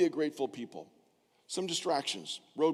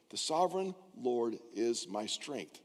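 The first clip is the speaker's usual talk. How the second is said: slow scripture reading; 5 semitones lower, 5 dB quieter, slower than usual. Shown as a demonstration. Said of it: "read this with me".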